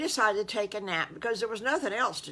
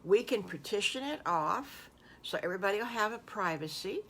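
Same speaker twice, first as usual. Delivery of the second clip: whisper; faster than usual. Acted. Unvoiced line in farmer's speech.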